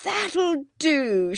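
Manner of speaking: high, firm shout to stop. A narrator's reading. Mister Beebe shouts to the boys to stop, high firm shout. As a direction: call a halt like a vicar. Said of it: "shouted Mister Beebe".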